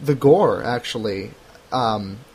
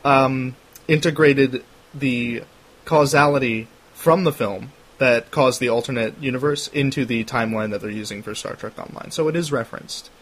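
nerd voice. Pretend. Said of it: "I put on my painful nerd voice".

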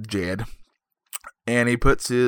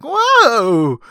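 high, loud, drawn-out startled cry; Don Knotts; 12 semitones higher, 7 dB louder than usual. Acted. Neighbor sees the leprechaun, high startled impression. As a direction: yelp in comic fright, falling at the end. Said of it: "That's my Don Knotts impression".

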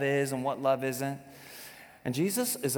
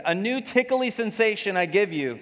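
higher, playful mock scripture; silly high fake verse; 8 semitones higher, 4 dB louder than usual. Pastor joking with the crowd, silly high voice. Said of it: "He didn't say any of those things".

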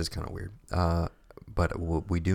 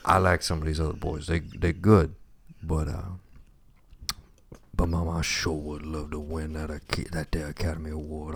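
lightly voiced folksy nominee talking to his mama; a hint of an earnest country boy thanking Mama; a touch of a hokey award-show character; Southern acceptance speech.

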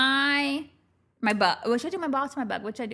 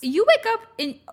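exasperated; 11 semitones higher, 4 dB louder than usual. Real, not acted. Mock exasperation, high.

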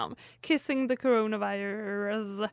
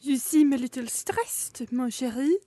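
put-on French accent. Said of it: "in a seductively alluring French accent".

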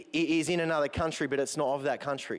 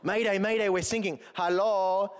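mock mayday call; 5 semitones higher than usual. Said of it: "my German accent's not that strong".

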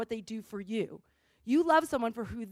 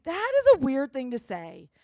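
weirded out; 5 dB louder than usual. Pretend. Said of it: "You think".

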